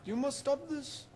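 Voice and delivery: forceful rebuke to the villain; stern command. Acted. Dumbledore confronts Voldemort.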